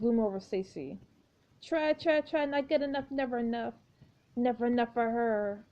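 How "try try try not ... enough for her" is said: hissing. Acted. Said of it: "Jane hisses".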